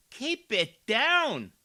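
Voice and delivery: loud, high, slow mock scolding. Commentator mocking the councilwoman as a schoolteacher, loud and slow. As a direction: boom it like a stern schoolteacher. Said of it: "you talk a little lower".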